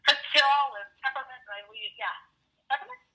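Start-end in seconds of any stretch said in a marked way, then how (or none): 0.0-1.4 slowly stretched peppermint, a light mock of the coworker; drawn-out offer. Coworker offering candy, word stretched out slowly. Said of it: "She goes". 2.7-3.0 high rising "Peppermint?" as a question; puzzled question. Real, not acted. Echoing the coworker's offer, high and puzzled. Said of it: "questioning the word".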